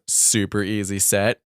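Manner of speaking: slow, drawn-out sarcasm; understated, slow sarcastic delivery; dripping sarcasm. Shown as a demonstration. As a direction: stretch the words out sarcastically. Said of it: "sarcasm, dripping off that statement".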